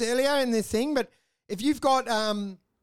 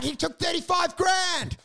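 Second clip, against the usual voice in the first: higher, shouted mock fury; mock outraged rant; 5 semitones higher than usual. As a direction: rant like you're demanding he's jailed. Retold rant about a fraudster.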